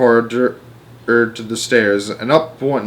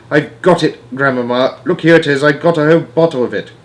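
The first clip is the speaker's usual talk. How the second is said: excited; 4 semitones higher, 4 dB louder than usual. Acted. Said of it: "I cried, jumping up and down".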